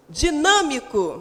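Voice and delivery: "Dinâmico" slowly, weight on the nâ; stress on NÂ. Shown as a demonstration. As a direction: draw out the nâ in "Dinâmico". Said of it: "proparoxítona". ("Dinâmico" devagar, com ênfase no nâ)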